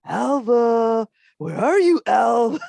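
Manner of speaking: teasing call from around the corner; spooky calling out. Retold or imitated. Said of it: "be around the corner and be like".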